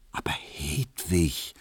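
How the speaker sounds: slow, pressing whisper; urgent whisper. Acted. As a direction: whisper to persuade her. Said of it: "flüsterte Emil Kubinke eindringlich". (eindringlich geflüstert)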